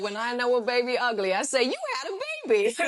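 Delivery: nurse impression. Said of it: "she said".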